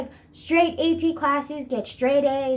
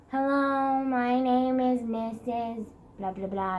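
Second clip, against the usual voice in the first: slow, droning teacher greeting, barely put on; mock depressed monotone; slower than usual. Student imitating her gloomy math teacher, flat drone. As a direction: drag the words like a gloomy teacher. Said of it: "depressed, monotone voice".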